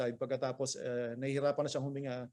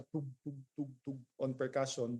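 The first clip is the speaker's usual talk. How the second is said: soft imitated percussion taps; short muted thud noises; dull thuds; 5 dB quieter than usual. Shown as a demonstration. Teacher demonstrating dull percussion, soft muted thuds. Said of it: "dull nga siya".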